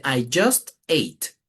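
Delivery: slow, deliberate "I just ate"; example sentence. Shown as a demonstration.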